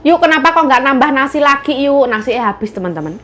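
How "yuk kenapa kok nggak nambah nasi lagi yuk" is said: playful invitation. Real, not acted. Teasing invitation to viewers.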